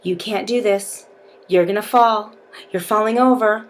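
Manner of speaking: mock taunts, lightly voiced; taunting beast. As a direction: tease them to make them lose focus. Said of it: "your partner is gonna be saying things to you like".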